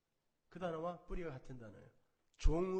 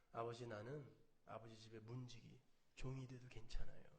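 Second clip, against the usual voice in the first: humble plea; 7 semitones lower, 9 dB quieter than usual. Retold or imitated. Humble younger son quoted.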